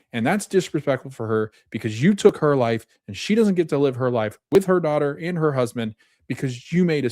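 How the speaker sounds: mildly acted scolding, pitch lifted on key words; retold reproach. Gabby confronts Lewis over wasting his life, mildly acted reproach. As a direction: lay into them as if quoting an angry friend.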